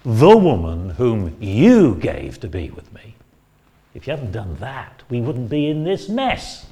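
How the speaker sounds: aggrieved husband accusing God; resentful blaming. Retold or imitated. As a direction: throw the blame back at God. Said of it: "That's the tone of voice which I think we have here".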